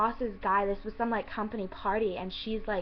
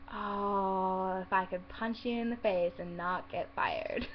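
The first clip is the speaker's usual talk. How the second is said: low, held-back imagined retort; quietly fed up, drawn-out "Oh"; suppressed exasperation; 4 semitones lower, 4 dB quieter, slower than usual. Retold or imitated. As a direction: grumble a private wish you can't act on. Imagined retort to rude customer.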